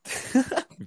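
high, breathless yelp of a laugh; dog voice. Real, not acted. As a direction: laugh that comes out like a dog's bark. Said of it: "Te salió como una voz de perro".

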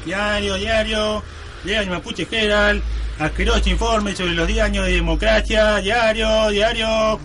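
sing-song street vendor cry; newspaper seller. Acted. The fired reporter now sells papers in the street: a street hawker's cry. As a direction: hawk the paper to passers-by.

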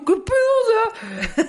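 very high, slow, stretched mock shock; baffled. Mocking friends who cry easily, stretched incredulous. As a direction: drag it out in disbelief. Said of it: "y yo".

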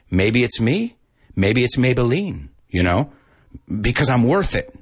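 mock cosmetics commercial voice; playful slogan read; ad slogan parody. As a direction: deliver it like a TV beauty ad. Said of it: "Maybelline slogan parody".

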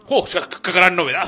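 mock-impressed, lightly voiced dog; ironic. TV dog reacting to the returning show, mildly ironic. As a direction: feign being impressed. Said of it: "el perro como muy irónico".

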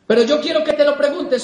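"quiero que te lo preguntes" más alto y más fuerte, remarcando "te"; súbelo para insistir; más fuerte y enfático. Shown as a demonstration. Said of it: "repetición enfática". (insistencia en voz alta ante el público)

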